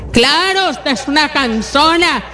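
a mock scornful spouse; sarcastic retort. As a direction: sneer at the offer of help. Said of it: "esa no es la forma".

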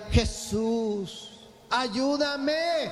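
calling out to Jesus from the bathroom, half-comic; mock cry for help. Shown as a demonstration. Preacher mocks a woman yelling in the bathroom, a pleading cry. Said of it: "empieza a gritarle".

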